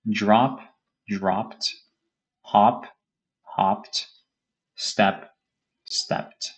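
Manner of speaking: slow careful teacher read-aloud; model reading of verb pairs. Shown as a demonstration. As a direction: read each word then its past form, clearly. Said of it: "focus on the way I pronounce it".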